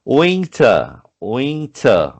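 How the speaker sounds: teacher drilling winter; repeated model word. Shown as a demonstration. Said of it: "teacher repeating word".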